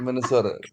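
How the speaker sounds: Minnesota said MEN-eh-SOR, flattened; teasing pronunciation. Shown as a demonstration. Teasing a friend on how to say Minnesota. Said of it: "you have to say Minnesota".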